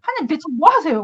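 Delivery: acted-out indignant plea; angry demand. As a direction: challenge God with mock annoyance. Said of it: "화내면서 하느님을 찾았어요".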